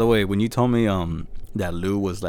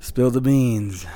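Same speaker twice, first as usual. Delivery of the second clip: slow, louder teasing build-up; slow, drawn-out; 4 semitones higher, 4 dB louder, much slower than usual. Real, not acted. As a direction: stretch it out for suspense. Dramatic build-up to a reveal.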